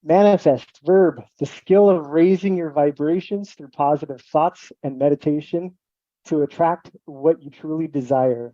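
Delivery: measured read-aloud of a definition. Real, not acted. Guest reading the shirt out for the host, measured read-aloud. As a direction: read it out slowly, like a dictionary entry. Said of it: "Read it for us".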